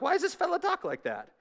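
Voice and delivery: high-pitched mock Southern accent. Preacher joking that the verse sounds Southern, mock Southern accent. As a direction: ham it up as a soft, high Southerner. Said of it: "That sounds like Southern language".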